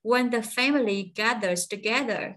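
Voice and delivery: "When the family gathers together" slowly in one chunk; phrase then pause. Shown as a demonstration. Teacher cutting the sentence, slow chunk stopping after "together". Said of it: "cắt chỗ này, ngưng một nhịp".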